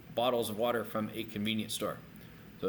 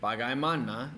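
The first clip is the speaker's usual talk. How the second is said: bagaimana said quicker, rising at the end; quicker pronunciation. Shown as a demonstration. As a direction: join up the syllables of bagaimana. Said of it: "If you say it quicker".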